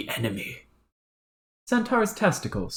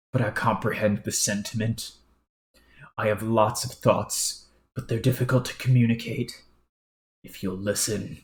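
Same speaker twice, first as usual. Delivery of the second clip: aloof aristocrat. Acted. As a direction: speak down to him like a haughty noble. Low formal character voice.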